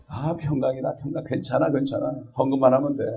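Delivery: lightly imitated false prophet; softened, empty comfort; mock reassurance. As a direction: soothe them a little too easily. Mimics prophets soothing for offerings.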